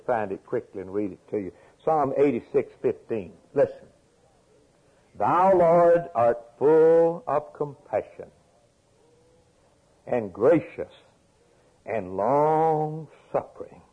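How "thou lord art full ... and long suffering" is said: higher, louder, slow proclamation; fervent scripture reading. Acted. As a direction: read it like a proclamation. Preacher reads psalm fervently.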